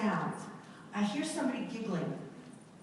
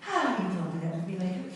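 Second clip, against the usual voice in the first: laughing aside; 2 semitones lower, faster than usual. Real, not acted. Laughing aside after breath demo.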